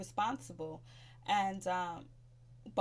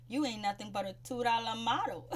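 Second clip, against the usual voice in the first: an insult quoted through laughter; laughing insult; 3 semitones higher than usual. Retold or imitated. Retelling Anais's insult to Aisha, laughing. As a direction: giggle out the dig.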